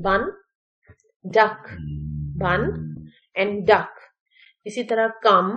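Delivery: "bun", "duck", "blood", "flood" with a short relaxed uh; teacher models the uh vowel in "come", "sun", word by word; short UH sound. Shown as a demonstration. Teacher showing learners spellings of one vowel, short uh sound. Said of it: "next है जी अ sound".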